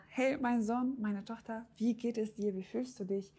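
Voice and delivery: a hint of a sweet mother's voice; mother asking. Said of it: "kommt deine Mama rein und fragt so".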